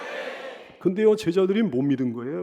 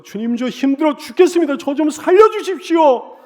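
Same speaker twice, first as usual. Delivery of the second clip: pleading high and loud, slowing at the end; desperate cry for help; 7 semitones higher, 5 dB louder than usual. Retold or imitated. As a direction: cry out to the Lord like someone drowning. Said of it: "비명이라도 지르는".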